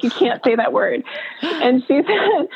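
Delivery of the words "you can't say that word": words said through a laugh. Real, not acted. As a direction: let the laugh spill into the words.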